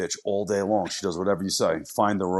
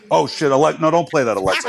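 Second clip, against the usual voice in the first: sudden louder alarm; 4 semitones higher, 5 dB louder than usual. Real, not acted. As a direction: quickly stop the speaker. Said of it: "I got Alexa listening".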